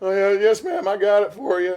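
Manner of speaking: very high, very loud, shrill, goofy cartoonish voice. Playing Calvin answering a woman who asks if he knows what she wants, in a goofy Calvin voice. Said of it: "I was trying to do the goofy voice for Calvin".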